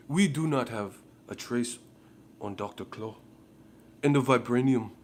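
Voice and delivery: lightly put-on grand African king voice; mock Wakanda elder. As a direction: ham up a solemn movie king. Continues Black Panther parody.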